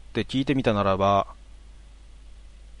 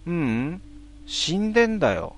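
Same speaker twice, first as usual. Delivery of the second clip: much higher, lightly voiced child; second child's voice; 6 semitones higher than usual. Second ghost child answers, high and childlike. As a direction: answer it with eerie childish plainness. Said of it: "もう一人の子供の声で".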